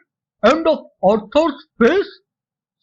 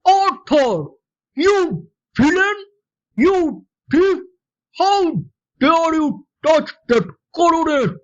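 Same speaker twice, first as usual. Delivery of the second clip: a father's startled outcry, read rather than yelled; mock scream; 4 semitones higher than usual. Father catching his son at the coronet, mild mock scream. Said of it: "I screamed".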